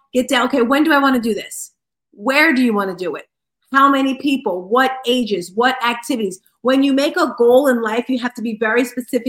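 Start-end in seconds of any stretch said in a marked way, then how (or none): none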